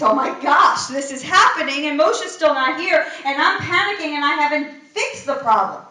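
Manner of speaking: a hammed-up flustered leader; mock panic. Aaron realizing Moshe isn't back, mock panicked.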